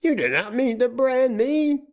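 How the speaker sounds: terrified plea. A narrator's reading. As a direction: shriek it in terror. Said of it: "uttered a scream".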